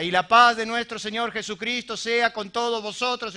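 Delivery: mock liturgical blessing; imitated church benediction. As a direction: recite it like a formulaic closing blessing. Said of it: "se terminaban de esta manera". (imitando una bendición de iglesia)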